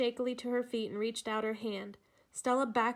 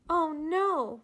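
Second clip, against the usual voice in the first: a higher, louder cry of dismay; 6 semitones higher, 6 dB louder than usual. A narrator's reading. Paulette crying out on hearing of the snakebite. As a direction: gasp it out in shock. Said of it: "Paulette cried out".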